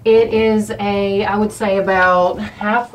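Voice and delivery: tight, shaky voice from fear. Real, not acted. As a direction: voice trembling with nerves. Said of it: "Sorry, my voice is shaking".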